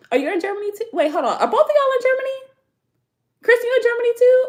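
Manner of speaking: rising disbelief at the time zones; surprised confusion. Real, not acted. Confused about viewers' time zones.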